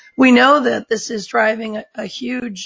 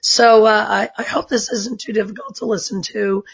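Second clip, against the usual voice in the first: allergy-squeaky voice. Real, not acted. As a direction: talk with a squeaky, strained voice. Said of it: "I know I sound squeaky".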